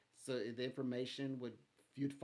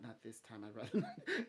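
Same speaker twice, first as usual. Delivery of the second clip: laughing refusal. Retold or imitated. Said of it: "a voice say".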